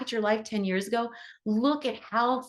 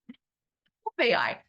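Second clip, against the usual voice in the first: drawn-out swoon; much slower than usual. Pretend. Her own swooning reaction to AI.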